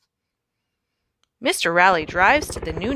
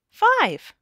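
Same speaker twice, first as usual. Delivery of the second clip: big final count; 12 semitones higher than usual. A narrator's reading. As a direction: land the last number with a big lift. Counting up to the big fifth job.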